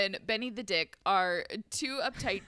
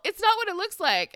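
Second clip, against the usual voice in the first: panicked cheating husband; 9 semitones higher, 6 dB louder than usual. Retold or imitated. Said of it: "and is all".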